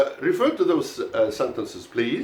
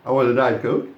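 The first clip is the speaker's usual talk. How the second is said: Diet picked out, Coke rising to continue; stress on Diet; 2 semitones lower than usual. Shown as a demonstration. Teacher sets up a contrast for the class, stressing Diet. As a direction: lean on Diet, keep it unfinished. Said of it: "not a non-Diet Coke".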